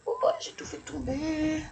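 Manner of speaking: high-pitched oops of dismay; dismayed yelp. Real, not acted. Reader has just dropped all the cards, high dismayed exclamation. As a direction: exclaim high at your own clumsiness.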